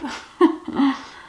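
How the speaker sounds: embarrassed teary laugh; tearful laugh. Real, not acted. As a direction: laugh through the tears. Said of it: "got a bit teary".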